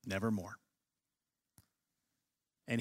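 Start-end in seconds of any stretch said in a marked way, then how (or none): 0.1-0.6 raven's dark "Nevermore". Retold or imitated. Teacher quoting Poe's raven to the class, low and hushed. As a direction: drop low and quiet on "Nevermore". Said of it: "quoth the raven".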